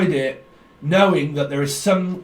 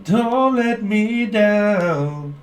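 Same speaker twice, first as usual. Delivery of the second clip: channelled plea; 6 semitones higher, 3 dB louder, much slower than usual. Acted.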